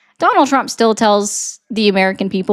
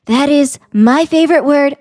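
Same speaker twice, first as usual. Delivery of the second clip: imitating Trump; 4 dB louder than usual. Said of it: "he said".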